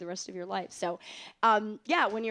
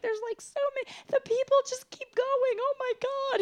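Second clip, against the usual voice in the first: excited; 4 dB louder than usual. Retold or imitated. Retold excited reaction on stage.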